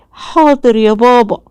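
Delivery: lightly voiced little boy repeating his yes; a hint of an obedient child. A narrator's reading. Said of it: "child agrees to father".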